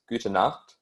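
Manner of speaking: gute Nacht said slowly and carefully; slow German demo. Shown as a demonstration. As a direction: model gute Nacht for learners. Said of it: "if you wanna say good night".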